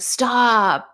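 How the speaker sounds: sharp mock yell of stop; retold scream. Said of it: "And I just screamed".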